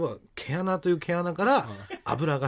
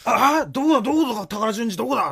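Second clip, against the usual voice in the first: higher, louder eager searching; excited searching; 7 semitones higher, 5 dB louder than usual. Retold or imitated. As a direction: shout out eagerly looking around. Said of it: "っつって".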